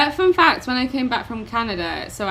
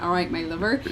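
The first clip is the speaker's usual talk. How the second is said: lightly put-on Cornish; a gentle Cornish greeting, rising at the end; Cornwall accent; 2 semitones lower, 4 dB quieter than usual. Shown as a demonstration. Demonstrating Cornwall accent, lightly Cornish. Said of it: "Yeah, Cornwall accent".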